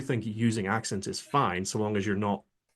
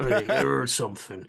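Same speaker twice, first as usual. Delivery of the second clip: standard game guard. Acted. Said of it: "your standard guard is like".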